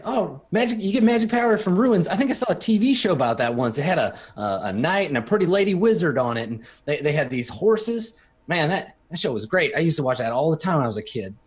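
lightly voiced eager country boy; excited rube. GM playing Cameron gushing about a TV show, lightly voiced eager country boy. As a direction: gush about a half-remembered TV show.

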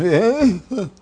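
sudden shrieking laugh at herself; a big real laugh; loud high laugh. Real, not acted. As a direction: burst out in a loud, high cackle. Laughing after rant about hospitals.

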